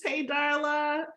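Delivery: high, slow, delighted hello; excited greeting. Real, not acted. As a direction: sing out her name with joy. Warm excited greeting to Darla.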